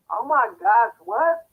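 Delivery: high, loud disbelieving what; real jolt of surprise at the story; sharp stunned question; shocked. Real, not acted. Shocked by viewer's locked-car story.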